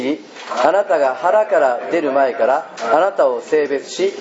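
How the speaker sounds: slow unison scripture reading; measured reading of the Bible text; scripture reading aloud. Shown as a demonstration. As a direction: read the verse slowly together. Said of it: "ちょっと読みましょう、皆さんで。".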